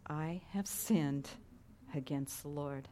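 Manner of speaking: soft, slow whispered confession; broken whisper of guilt; hushed confession. Retold or imitated. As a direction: breathe it out in humble shame. David's confession.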